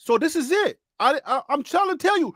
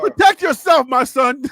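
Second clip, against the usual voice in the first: laughing; 3 semitones higher, 4 dB louder than usual. Real, not acted. Laughing, mock boxing advice.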